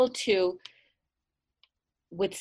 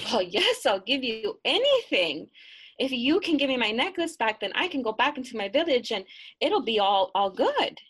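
put-on eager girl, higher and quick; pleading young girl, words tumbling out; young girl begging, fast and bright; 4 semitones higher, 4 dB louder than usual. Girl voiced in tale.

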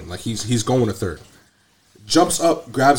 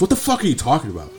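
incredulous retort; 4 semitones higher, faster than usual. Retold or imitated. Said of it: "literally said it just like that".

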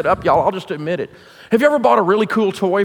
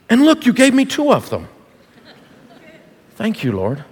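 heartfelt thanks; 2 semitones lower than usual. Shown as a demonstration. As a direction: thank them like you mean it. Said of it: "mean it".

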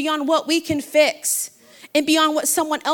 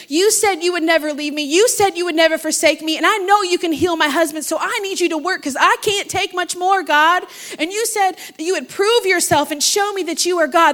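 insistent plea to God; retold forceful, pleading prayer; re-enacted bold prayer. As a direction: demand answers from God, pressing each point. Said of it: "talk to God like that".

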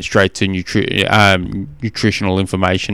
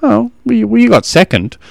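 put-on consoling kid; 10 semitones higher than usual. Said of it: "And he goes".

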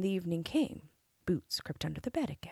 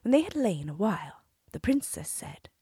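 usual speaking voice

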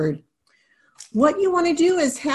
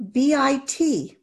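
letter names spelled out; slower than usual. Shown as a demonstration. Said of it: "you want them saying the letter names".

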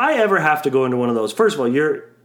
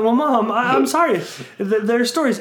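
higher-pitched protest to a parent; mock defensive apology; 6 semitones higher than usual. Answering mom's complaint about the podcast, mock defensive apology. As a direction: plead your case to mom, retold. Acts out reply to mom.

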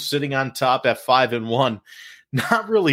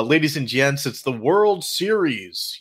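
slow, raised announcement; announcer voice; 3 semitones higher than usual. Acted. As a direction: present it like a big event. Announcing the World Series.

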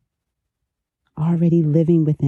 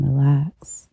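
whispered. Acted. Whispered cue in meditation.

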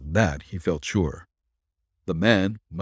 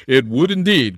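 higher, louder eager exclamation; eager colonel's exclamation; delighted cry; 5 semitones higher, 7 dB louder than usual. A narrator's reading. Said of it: "cried the colonel with sparkling eyes".

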